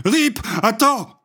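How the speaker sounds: high, slow, pleading cry; terrified charlatan crying for mercy; desperate cry. Acted. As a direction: beg him to stop, drawn out. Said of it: "cria le charlatan".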